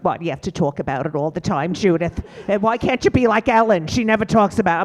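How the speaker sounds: a mother scolding her daughter, pushing harder; imitating her mother. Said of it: "my mother's like".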